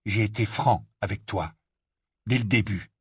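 measured, restrained statement; calm tone. Acted. Harry defends himself to Ron, calm. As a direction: state it evenly, holding the anger in. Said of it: "d'un ton très calme".

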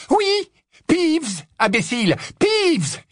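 very high, angry repetition; exasperated yell. Acted. Professor repeating the name to the baffled caretaker, yelling. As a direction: hammer the name at him shrieking.

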